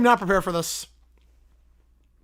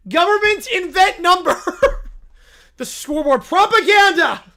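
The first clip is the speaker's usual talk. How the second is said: loud bear voice; 8 semitones higher, 8 dB louder than usual. Acted. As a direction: bellow it like a lovesick bear. Bear conspiracy.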